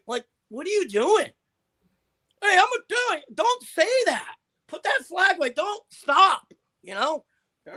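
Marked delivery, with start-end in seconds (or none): 2.4-4.4 loud, higher mock Italian tough guy; mock Jersey-style brawler bragging; tough guy impression. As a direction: ham up a hothead Italian threatening a fight. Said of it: "Italians don't talk like that".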